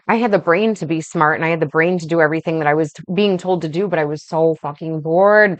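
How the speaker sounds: talking while chewing gum; words round a wad of gum. Real, not acted. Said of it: "why I'm chewing gum right now".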